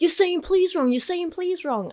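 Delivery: put-on angry man screaming. Retelling a frightening street encounter, quoting the aggressive man's angry words to them, imitating an aggressive screaming man. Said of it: "I started crying".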